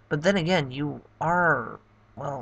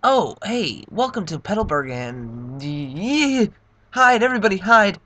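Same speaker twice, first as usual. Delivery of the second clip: higher, much louder warning cry; panicked townsperson; 6 semitones higher, 6 dB louder than usual. Acted. Townsperson warning everyone to hide from Bowser, panicked yell. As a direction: shout a panicked alarm to the town.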